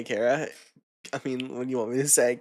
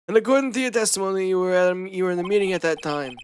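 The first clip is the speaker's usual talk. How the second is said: put-on Valley Girl voice; 3 semitones higher, faster than usual. Socks voiced as a Valley Girl, fast. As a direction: play the witness as a Valley Girl. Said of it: "you do kinda sound like a Valley Girl".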